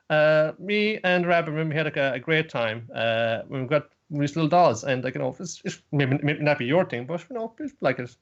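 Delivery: lightly voiced sweet heroine; Nodoka defending. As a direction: stand up for the doll kindly. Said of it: "Nodoka says".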